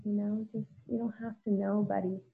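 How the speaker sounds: quiet, gentle voice talking herself through pain; soft self-soothing. Retold or imitated. Crying on the bathroom floor, she comforts herself gently. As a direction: hush and comfort yourself like a buddy.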